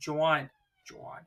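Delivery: teasing imitation of her Jersey accent; mocking Jersey accent. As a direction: say "Juan" as a mock-Jersey "John". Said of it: "It's your accent".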